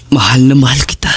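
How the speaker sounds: hushed loving goodbye; tender whisper. Acted. Jake saying goodbye to Wendy, tender whisper. Farewell to his girlfriend.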